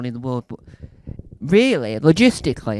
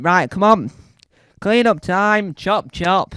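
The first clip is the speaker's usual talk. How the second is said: bossy order; 4 semitones higher, 7 dB louder, slower than usual. Acted. Someone ordering a clean-up.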